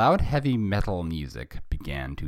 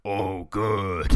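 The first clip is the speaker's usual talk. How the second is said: drawn-out villain's gloating; lightly hammed-up evil boss; 2 semitones higher than usual. A narrator's reading. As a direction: play the voice of evil. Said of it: "the voice of evil".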